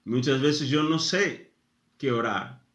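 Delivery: ordinary talk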